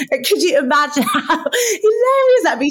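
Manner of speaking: high, loud laugh-through. Real, not acted. Actress laughing after her Gemma Collins impression. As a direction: crack up at your own impression.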